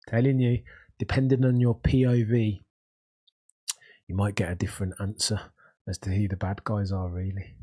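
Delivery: strong Birmingham accent, enthusiastic. Real, not acted. Answering Patrick on the bad guys, Birmingham accent. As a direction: let the Birmingham accent come through. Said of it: "Look at my accent".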